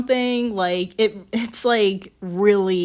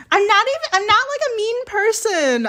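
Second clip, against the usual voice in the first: laughing; 13 semitones higher, 4 dB louder than usual. Real, not acted. Defends herself, laughing.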